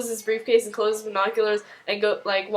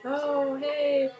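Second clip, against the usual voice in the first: Olivia; 5 semitones higher than usual. Retold or imitated. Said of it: "Olivia's all like".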